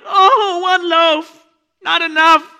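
hammed-up high whine, loud; mock whimpering. Disciples fretting over one loaf, mock whimper. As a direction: whimper like a spoiled kid. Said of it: "You're like".

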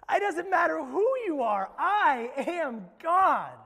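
loud and forceful, rising high; God scolding Moses at full volume; booming God voice. Acted. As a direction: thunder it out as an impatient God. God answers Moses emphatically.

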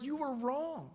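high mock-tearful accusation; crying child imitation. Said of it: "So he's crying. He's like".

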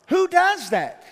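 high, loud, exasperated cry; exasperated outburst. Real, not acted. Preacher fed up with his friend's driving, exasperated. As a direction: throw up your hands at him. Exasperated at driver running light.

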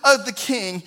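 loud, rising preacher's cry; emphatic call. Real, not acted. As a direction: proclaim it to the congregation. Preacher's rousing address.

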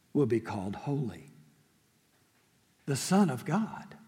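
measured, solemn Bible reading; scripture reading. Acted. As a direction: read the passage with reverence. Pastor reads scripture aloud.

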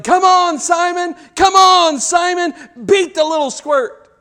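high, loud cheering from the sidelines; yelling. Acted. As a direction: yell on your favourite runner. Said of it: "Some are yelling".

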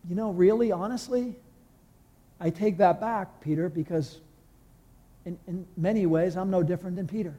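soft, humbled admission; a hushed, sincere confession; quiet conviction. Retold or imitated. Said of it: "a deep conviction came over me".

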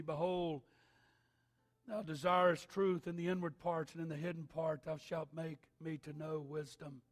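measured solemn psalm reading; scripture reading. Acted. Reads psalm before sermon.

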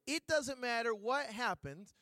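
each word drawn out slowly, like a sales pitch; a slow, persuasive sales-lady promise; slow, deliberate quote. Retold or imitated. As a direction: lean on it slowly, selling it. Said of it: "This is what the lady said".

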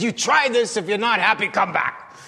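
lightly voiced café owner, starting high and settling; a touch of bossy salesmanship, imitated; insistent café papa. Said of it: "He says".

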